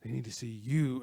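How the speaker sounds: steady, heartfelt encouragement of a shaken player; retold invigorating speech. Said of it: "He gives him this wonderful, invigorating speech".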